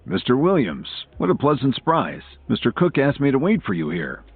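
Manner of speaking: courteous, lightly warm welcome; warm greeting. A narrator's reading. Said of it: "gave him a warm greeting".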